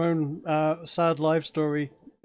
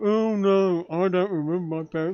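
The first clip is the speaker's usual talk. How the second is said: mocking, whiny voice with sarcastic mock sadness. Mocking another character's sad answer: mocking whiny voice. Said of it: "boo freaking hoo".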